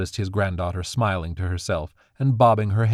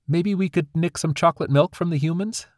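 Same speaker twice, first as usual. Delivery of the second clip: greedy grin; 9 semitones higher than usual. Acted. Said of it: "Dandy smiled greedily".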